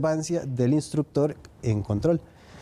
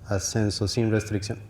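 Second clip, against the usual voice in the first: crackly military radio. Shown as a demonstration. Departures controller radio demo.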